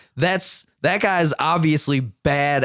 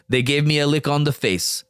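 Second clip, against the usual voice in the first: bad Russian accent; 2 semitones lower than usual. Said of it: "that was a terrible Russian accent".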